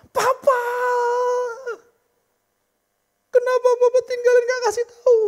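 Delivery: high, loud, sobbing cry of grief; crying wail. Acted. Mourning women crying to the dead father, high loud wail. Young women wailing at a funeral.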